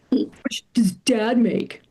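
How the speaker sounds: sly whispered question; teenage son whispering to his mom about money. Retold or imitated. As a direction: whisper it like a sneaky teen. Teen son quizzing mother.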